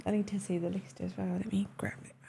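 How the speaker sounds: soft quick whisper under breath. Real, not acted. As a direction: whisper to yourself. Reading list quietly to himself.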